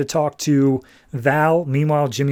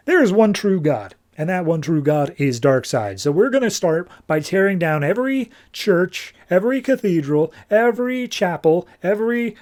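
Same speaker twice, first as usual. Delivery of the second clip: mock sermon, pitch climbing through the list; zealous proclamation; 4 semitones higher than usual. Superman rallies an army for his god, zealous proclamation. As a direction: proclaim it like a zealot, lightly hammed-up.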